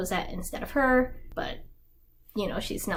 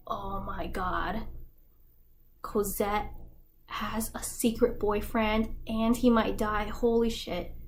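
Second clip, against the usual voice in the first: freaking out; slower than usual. Retold or imitated. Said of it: "He's freaking out".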